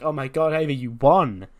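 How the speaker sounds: acted squeal of a thrilled friend; excited congratulations. Alexa celebrates Ivy's win with her, excited.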